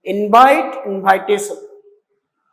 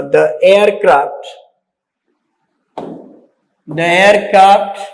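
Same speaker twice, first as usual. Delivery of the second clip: slow, word by word so students can write it down; slow dictation; 3 semitones lower, slower than usual. Shown as a demonstration. Teacher dictating slowly to students writing the sentence. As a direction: spell it out slowly for note-taking. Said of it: "You can write it".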